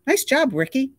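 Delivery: high, loud call across the water. A narrator's reading. Director calling out to the stuntman. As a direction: call out the praise. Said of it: "The director called out".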